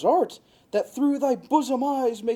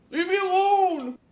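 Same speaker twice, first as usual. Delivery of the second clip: higher, sharp brush-off yell; exasperated yell; 9 semitones higher than usual. Acted. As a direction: shake off the pest with a shout. Demetrius shakes Helena off.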